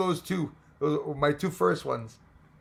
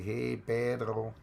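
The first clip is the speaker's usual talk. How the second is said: very slow, slightly lower drawn-out delivery; slowest Spanish speaker; 3 semitones lower, 4 dB quieter, much slower than usual. Shown as a demonstration. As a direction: stretch it out like a halting language learner. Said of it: "like the slowest Spanish speaker".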